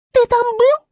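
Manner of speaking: высоко и громко, с вызовом; возмущённый вопрос звёздочки; Звезда спрашивает. A narrator's reading. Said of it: "спросила Звезда". (Звезда наседает на Медвежика, высокий крик)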